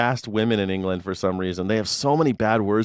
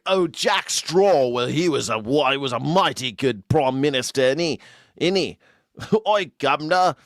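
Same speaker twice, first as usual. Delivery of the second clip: mock American drawl; 2 semitones higher than usual. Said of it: "we never go there and talk".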